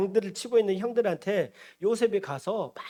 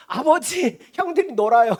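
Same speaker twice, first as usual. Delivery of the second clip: loud, higher-pitched mock tattle; tattling little brother; 4 semitones higher, 8 dB louder than usual. Joseph reports his idle brothers to father, tattling loudly. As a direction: call out to father to tell on them.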